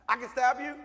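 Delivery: imitating an excited kid asking. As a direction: kid thrilled at the offer. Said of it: "he got excited".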